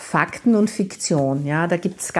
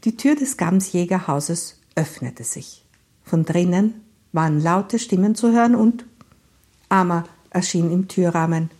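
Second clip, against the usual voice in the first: measured read-aloud narration; even storytelling voice; story narration. A narrator's reading.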